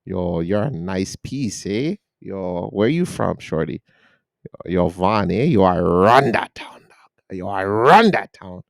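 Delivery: slow, laid-back mock street slang; a hint of a smooth player hitting on a girl; lightly voiced street talker. Guy mocking how he talks to women, slow mock swagger. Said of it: "you just like".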